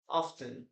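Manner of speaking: "often" said as off-ten; sounded T. Shown as a demonstration. Teacher gives the form learners will also hear, sounded T. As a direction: put a clear T in "often". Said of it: "you will also listen to this word as".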